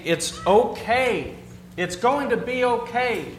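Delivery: slow, drawn-out soothing; gently calming her, half-acted; reassuring. Husband soothing panicking wife, slow reassuring. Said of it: "And I would say".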